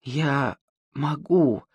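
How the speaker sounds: тихо, с испуганным иканием; икнуть от страха; hiccup. Acted. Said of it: "икнула от страха". (с иканием от страха)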